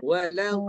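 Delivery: "Walau" with the sound stopped at the end; held back. Shown as a demonstration. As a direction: cut off the airflow after "Walau". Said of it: "Itu tahan".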